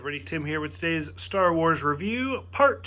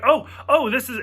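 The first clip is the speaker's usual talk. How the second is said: higher, louder eager oh, oh; excited babble; 6 semitones higher, 3 dB louder than usual. Retold or imitated. Imitating his friend getting excited mid-episode. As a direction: bubble over with excitement.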